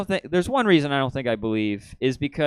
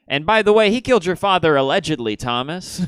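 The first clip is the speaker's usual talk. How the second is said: put-on gleeful kid; 6 semitones higher, 6 dB louder than usual. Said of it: "He defends the six-fingered strangler".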